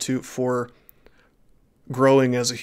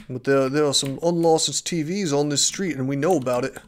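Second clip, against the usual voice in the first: bad mock-British accent, nearer the usual pitch; terrible British accent. Streamer playing TV licence enforcer, bad British accent. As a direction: put on a poor British accent. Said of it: "my terrible British accent".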